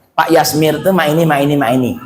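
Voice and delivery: low, flat gossiping murmur. Shown as a demonstration. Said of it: "Itu nadanya mak itu". (nada datar rendah)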